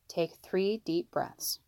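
slow, soft and steady; calm. Acted. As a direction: soothe the boys into breathing. Father calming angry sons.

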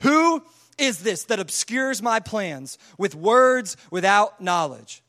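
very slow, weighty challenge; stern God, drawn-out and forceful; God going hard. Acted. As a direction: confront Job slowly, word by word. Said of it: "he just goes hard on him".

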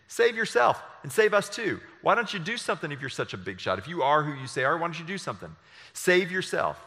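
laughing, high jeer, then quick taunts; mocking criminal. Criminal on the cross mocks Jesus, laughing jeer. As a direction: sneer like a bully calling him a big shot. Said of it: "is mocking Jesus and saying".

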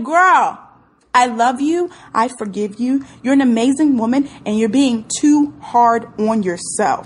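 loud, insistent mirror affirmation; emphatic self-affirmation. Shown as a demonstration. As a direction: say it with your chest, like coaching yourself in the mirror. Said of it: "say it with your chest".

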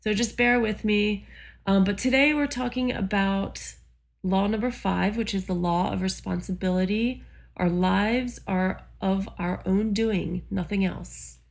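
hoarse from allergies; croaky allergy voice; frog voice. Real, not acted. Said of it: "I probably sound like a frog, but I'm dealing with allergies".

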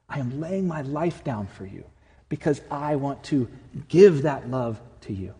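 a mild, tender promise to the bride; tender groom. Retold or imitated. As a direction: soften into a loving vow, slowing on the last words. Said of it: "tenderly holds her and says".

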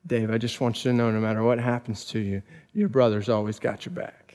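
quiet and tender; a big brother reassuring gently; soft brotherly promise. Retold or imitated. Big brother to Dave, a soft tender promise.

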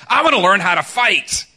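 mock outburst of an impatient pupil; frustrated protest. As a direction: protest as the fed-up karate student. Acting out Daniel's frustrated inner protest.

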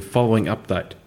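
accidental slip into a South African accent; a touch of South African; lightly South African-tinged announcement. Real, not acted. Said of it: "say that in a South African accent".

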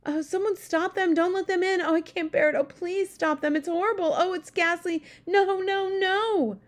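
high, loud pleading from a nightmare; sleep talking. A narrator's reading. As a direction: beg desperately while dreaming. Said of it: "it cried out".

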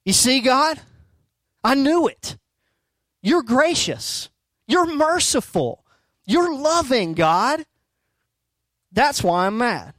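high, whining petulant prophet; a sulky prophet griping at God, high and whiny; Jonah's whiny complaint. Retold or imitated. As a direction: whine it up like a sulking child. Preacher voices Jonah's complaint.

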